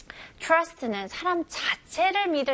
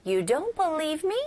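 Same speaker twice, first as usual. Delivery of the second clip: hurt disbelief; 6 semitones higher, much slower than usual. Shown as a demonstration. Teacher drills the doubting question, hurt and rising. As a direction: sound hurt they doubt you. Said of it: "이런 말투입니다".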